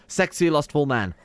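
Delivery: drawn-out, teasing sultry read; slow mock sultry. Streamer joking about the heir's new husband, slow and sultry. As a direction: savour it like a cheesy seduction line. Choosing a spouse for the heir.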